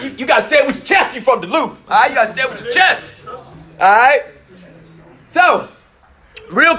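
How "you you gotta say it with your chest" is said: shouting. Real, not acted. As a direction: shout it out with energy. Urging the crowd to speak up.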